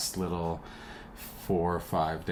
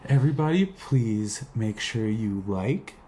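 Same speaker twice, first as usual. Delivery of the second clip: dog's voice; 5 semitones higher, 5 dB louder than usual. Pretend. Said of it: "He says".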